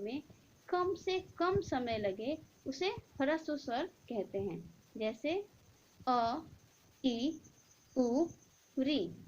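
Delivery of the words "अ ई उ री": अ, ई, उ, री said short and crisp; short vowels. Shown as a demonstration. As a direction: clip each vowel अ ई उ री quickly. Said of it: "हम ध्यान देंगे इसका उच्चारण में". (ह्रस्व स्वर छोटे उच्चारण में)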